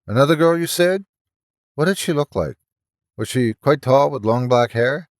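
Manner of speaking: eager, rising questions; excited. Acted. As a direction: press for details, hopeful. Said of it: "excited concern".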